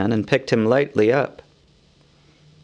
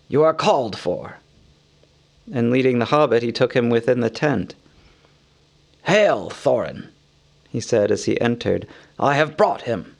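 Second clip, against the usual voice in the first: grave wizard. Acted. Gandalf solemnly brings Bilbo to the wounded Thorin.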